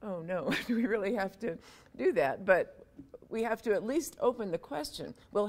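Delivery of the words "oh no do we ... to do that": mock groan. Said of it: "my science pals just went".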